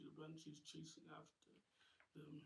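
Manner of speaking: plain reading voice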